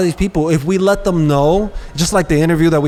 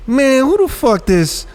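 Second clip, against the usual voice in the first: mock hostile baller; 9 semitones higher than usual. Imitating hostile player on court.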